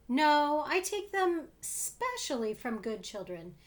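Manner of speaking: enjoy the mischief; gleeful. Acted. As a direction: creature gleefully boasting to Bobo. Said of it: "said the funny thing gleefully".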